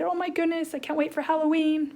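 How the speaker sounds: put-on excited girl. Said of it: "she's probably like".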